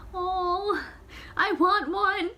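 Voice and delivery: high, gushing voice; excited longing. Real, not acted. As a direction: squeal of wanting the gown. Reader's aside, delighted by gown.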